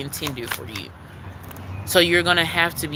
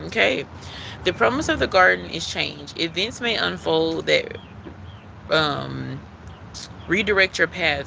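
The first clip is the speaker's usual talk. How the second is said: oracle card reading. Acted. Reader to her live viewers, calm card-reading voice. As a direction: read the card's message like a gentle ritual.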